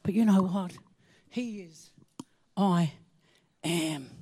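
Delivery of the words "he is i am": hushed reverence. Acted.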